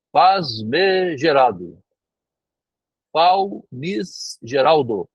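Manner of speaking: "famigerado" said very slowly and garbled as "Faz-me gerado", "Fal-mis geraldo"; mangled word. Retold or imitated. The jagunço slowly mangling the word famigerado. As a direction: drag out "famigerado" and stumble over it like a strange word. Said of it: "Ele escutou essa palavra e foi lá repetir".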